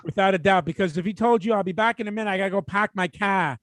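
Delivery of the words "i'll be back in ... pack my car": put-on lightly done Boston accent. Co-host showing how the clerk would talk, Boston accent. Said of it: "you can hear it in the accent".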